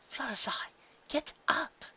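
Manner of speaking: high, distant call; faint, far-off calling voice; calling from afar. A narrator's reading. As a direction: call to someone waking up. Same distant voice calls.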